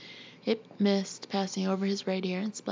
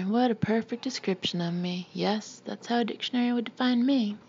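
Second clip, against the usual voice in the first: false joy; 3 semitones higher than usual. Acted. Daughter mocking her mother's lady talk, in false cheer. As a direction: fake delight, barely hiding sarcasm. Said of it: "Marianne sang with false joy".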